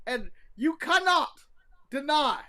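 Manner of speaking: mock English accent, playfully indignant; badly faked English accent; put-on English accent. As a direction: bring back a fake English accent. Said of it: "you challenged my English accent".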